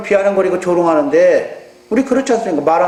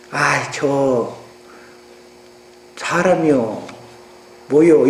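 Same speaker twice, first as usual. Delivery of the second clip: exasperated wife; 7 semitones lower, much slower than usual. Retold or imitated. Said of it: "남편님과 대화할 적에".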